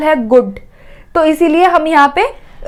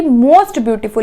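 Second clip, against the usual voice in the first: slow teaching read; 3 semitones lower, much slower than usual. Shown as a demonstration. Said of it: "superlative degree क्या हो जाएगी".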